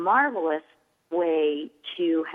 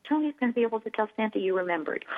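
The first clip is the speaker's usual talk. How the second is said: gentle praise; 3 semitones higher, 3 dB quieter, faster than usual. Pretend.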